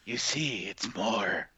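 a deliberately poor Scottish brogue; fumbling a Scottish accent on purpose, then giving up; bad Scottish accent. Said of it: "my Scot fucking sucks".

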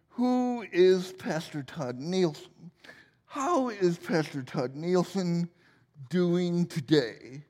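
slow, lightly voiced TV-host questions; a hint of an earnest interviewer drawing it out; mock interviewer. Interviewer questioning Pastor Todd, slow and lightly mock-earnest. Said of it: "She would say".

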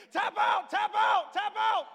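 high mock shout; imitating wife's taunt. Wife grabbing husband in a chokehold, high imitated yell. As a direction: shout it high and loud like an attacker demanding surrender. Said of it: "all you hear is her saying".

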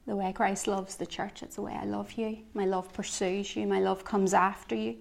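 soft, gentle, reassuring words; a quiet, tender whisper of love; tender voice of God. Retold or imitated. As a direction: speak it softly as God's loving promise. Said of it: "I felt God saying".

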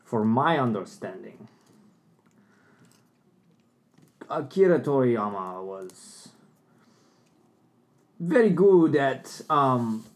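put-on slow, halting Russian accent; attempted Russian accent. Player giving an anime opinion on request, attempted Russian accent. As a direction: feel your way through a shaky-sounding Russian accent. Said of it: "I could do Russian pretty good".

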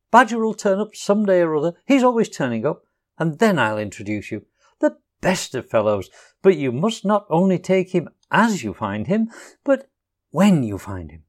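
brisk, breezy little Rat. Acted. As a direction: talk up the Badger cheerfully. Rat talks about Badger.

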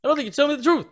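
high, loud southern drawl. Acted. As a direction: echo the accusation in a high southern voice. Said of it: "can do the southern drawl really good".

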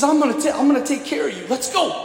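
high-pitched, rallying rescuer; urgent reassurance. Retold or imitated. Medic reaches a dying soldier, urgent and heartening.

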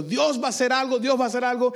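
exclamar con fe, tono más alto; fe entusiasta. Retold or imitated. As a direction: imitando a gente llena de fe. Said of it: "esta gente estaba diciendo". (exclamación llena de fe)

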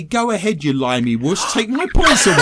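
mock taunt. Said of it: "He then goes on to say".

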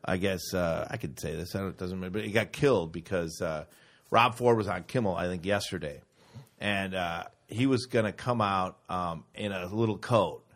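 confiding quietly, as if telling gossip; hushed aside. Real, not acted. To friends about Rob Ford on Kimmel, softly confiding. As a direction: drop the voice low and soft to share a secret.

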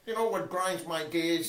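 lightly voiced Peter Griffin catchphrase; a hint of Peter Griffin, barely changed. Friend attempts cartoon dad catchphrase, lightly voiced. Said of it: "my best Peter Griffin impression".

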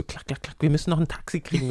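high, fast mock urgency; hammed-up rush for a taxi; mock hurried friend. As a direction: rattle it off like a rushed partygoer. Mimicking hurried friends at night.

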